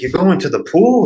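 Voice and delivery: high-pitched incredulous question; retold shock. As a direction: act out being baffled by a friend's plan. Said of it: "and I was shocked".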